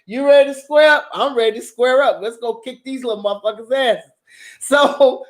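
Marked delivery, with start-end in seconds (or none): 0.1-4.1 raised-pitch eager call to fight; hyped for a fight. Retold or imitated. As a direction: pump up for a scrap. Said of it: "me and my sister like".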